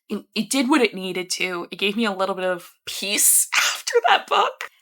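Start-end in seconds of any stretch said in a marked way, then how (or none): 1.7-4.7 whisper. Real, not acted. Whispering relief to viewers after a painful read. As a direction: breathe it out like a secret.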